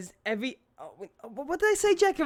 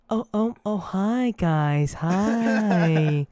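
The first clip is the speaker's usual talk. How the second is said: lightly voiced mom greeting a podcast; friend's mom impression; 3 dB louder, much slower than usual. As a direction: imitate someone's mom saying hello. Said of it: "if Jack's mom would come on this podcast".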